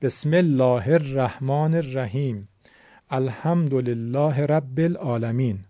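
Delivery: slow Quran reading with Persian vowels, "الله" as ellâh; Persian-style recitation. Shown as a demonstration. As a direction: read "بسم الله الرحمن الرحیم" slowly as besmellâh er-rahmân er-rahim. (تلاوت با لهجهٔ فارسی، بدون تجوید)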